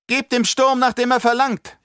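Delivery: high panicked shriek. Acted. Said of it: "kreischte sie".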